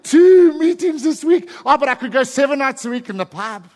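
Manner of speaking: exasperated, lightly mocking complaint; mock grumble. Voicing a grumbling churchgoer.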